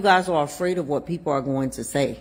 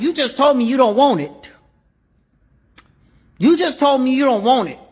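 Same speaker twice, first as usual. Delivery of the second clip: retold arguing; 6 semitones higher, 6 dB louder than usual. Arguing back at friend.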